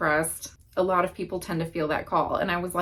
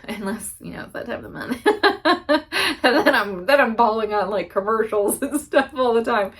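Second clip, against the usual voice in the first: giggling while admitting she cries at commercials; laughing through it; 3 semitones higher, 4 dB louder than usual. Real, not acted. To viewers, confessing she cries at ads, laughing. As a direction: laugh the words out, embarrassed. Joking about crying at commercials.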